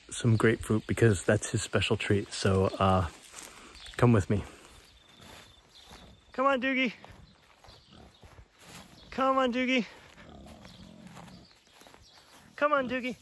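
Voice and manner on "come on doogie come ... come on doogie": sing-song high call to the pig; pet-calling voice, pitched way up. Real, not acted. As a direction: call him over in a high coaxing voice.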